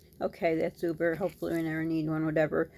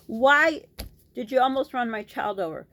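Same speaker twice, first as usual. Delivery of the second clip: angry demand; 4 semitones higher, 5 dB louder than usual. Retold or imitated. Confronting the driver.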